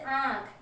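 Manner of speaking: "आँख" with its vowel nasalised; नाक और मुंह से. Shown as a demonstration. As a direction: say "आँख" through mouth and nose at once. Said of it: "मुंह से और नाक दोनों पे जोर जा रहा है". ("आँख" नाक-मुंह दोनों से)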